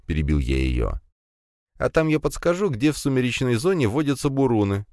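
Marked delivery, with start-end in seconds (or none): 1.8-4.9 put-on high, dreamy spider girl. A narrator's reading. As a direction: dream aloud of the hunt. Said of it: "мечтательно ответила Лея".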